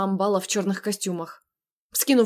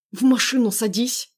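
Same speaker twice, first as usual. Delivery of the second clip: through gritted teeth; 3 semitones higher, 4 dB louder than usual. Acted. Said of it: "процедил сквозь зубы Андрей".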